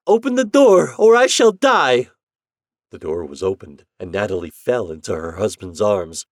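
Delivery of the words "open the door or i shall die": high, loud desperate cry; cried. Acted. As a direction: cry out as if fainting. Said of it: "she cried".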